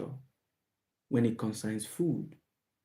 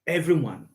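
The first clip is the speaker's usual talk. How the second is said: "everyone" lifted higher with emphasis; emphatic EVERYONE; 4 semitones higher, 3 dB louder than usual. Real, not acted. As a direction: hit "everyone" hard, pitched up. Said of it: "I'm putting an emphasis on that word".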